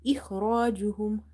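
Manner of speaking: إخراجهم with thick, full kha and ra; heavy kha and ra. Shown as a demonstration. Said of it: "Kha is heavy".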